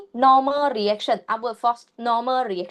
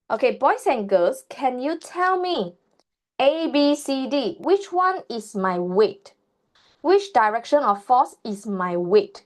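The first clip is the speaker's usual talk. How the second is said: put-on kids show host. Teacher quizzing children, slow and sing-song.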